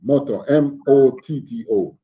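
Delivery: "Motto" said with a clear t, then spelt out; demonstrated pronunciation. Shown as a demonstration. Answering how the word is pronounced, demonstrated pronunciation. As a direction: say "Motto" with a true t, then each letter. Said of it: "how you pronounce that".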